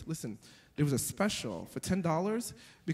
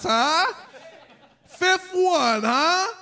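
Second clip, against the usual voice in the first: excited; 12 semitones higher, 8 dB louder, much slower than usual. Pretend. Hyping stepdad tryout.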